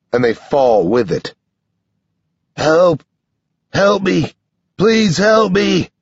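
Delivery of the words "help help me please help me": high, pleading cry for help; desperate yell. A narrator's reading. Sam twisting in shackles, yelling for rescue. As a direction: yell for help, stretching the last plea. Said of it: "Sam yells".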